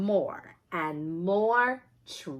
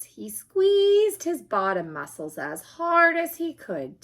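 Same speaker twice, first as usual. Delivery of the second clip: straining; 8 semitones higher, 7 dB louder than usual. A narrator's reading. Reader acts Ryan squeezing hard, straining high. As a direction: voice squeezed high and loud with effort.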